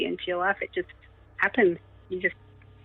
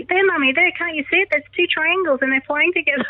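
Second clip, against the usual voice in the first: high, urgent pointing voice; excited kids; 10 semitones higher than usual. Retold or imitated. Kids pointing triangles out to mum, high and urgent. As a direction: insist Mummy look right now.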